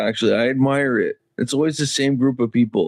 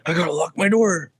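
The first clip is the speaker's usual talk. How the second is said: slightly raised mocking quote; mock worried driver; 4 semitones higher, faster than usual. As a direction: lightly imitate a nervous car owner. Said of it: "It's like".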